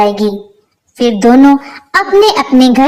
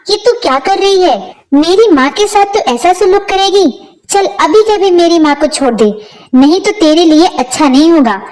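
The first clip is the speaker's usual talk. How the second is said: higher, indignant scolding shout; shouting at wife; 5 semitones higher than usual. Acted. Bhola shouts at his wife to release his mother, angry. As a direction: rebuke her sharply to let go. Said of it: "भोला हेमा पर चिल्लाता है".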